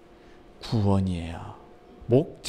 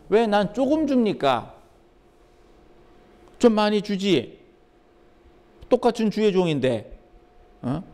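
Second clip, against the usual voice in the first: mock complaint; 2 semitones higher than usual. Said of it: "라고 불평을 할".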